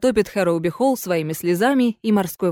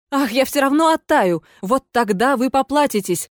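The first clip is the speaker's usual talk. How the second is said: higher, mildly threatening cry; 3 semitones higher than usual. Acted. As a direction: threaten revenge. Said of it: "угрожающе вскричала дама".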